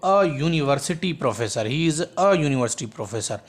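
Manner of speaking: slow, careful dictation; teacher dictating the answer slowly; slow correct answer. Shown as a demonstration. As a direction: read the right answer slowly. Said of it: "इन जे करे हिते छा थींदो?".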